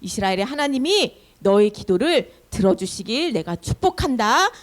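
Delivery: measured, lightly acted priestly benediction; priest's blessing. Priest blessing Hannah after hearing her story, gentle solemn benediction. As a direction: give a blessing as an old priest. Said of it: "이렇게 축복 기도를 해주는데요".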